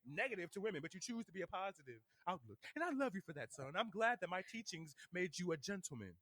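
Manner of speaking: a hint of mom's measured praise; imitating mom. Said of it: "and then she kinda like".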